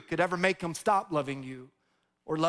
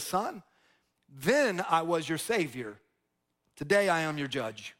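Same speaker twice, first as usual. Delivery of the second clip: grave judge; 3 semitones lower than usual. Retold or imitated. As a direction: speak it like a judge, low and measured. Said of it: "the judge said these words".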